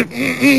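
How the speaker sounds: a high, grimacing "hum" of distaste; retold reluctant hum while grimacing; disgusted hum. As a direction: hum as if tasting something foul. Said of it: "je fais une petite grimace".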